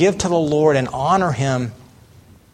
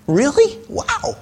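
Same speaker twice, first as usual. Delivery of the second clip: high, rising wow of wonder; mock amazement; 8 semitones higher, slower than usual. Preacher to congregation, mock amazed. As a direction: act stunned by the promise.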